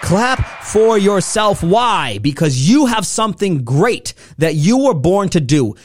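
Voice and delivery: high, rousing motivational shout; fired-up hype speaker calling out to the audience; rallying shout. Real, not acted. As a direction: work the crowd up to applause. Rallying listeners to applaud themselves.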